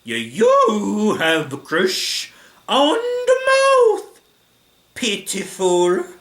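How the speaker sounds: put-on loud, high Italian accent, words dragged out; big drawn-out Italian-accented sneer; Ghidorah. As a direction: taunt slowly in a hammy Italian accent. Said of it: "doing an Italian accent for Ghidorah".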